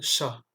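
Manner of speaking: SH sound opening "cha"; French CH. Shown as a demonstration. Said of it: "se prononce comme le ch".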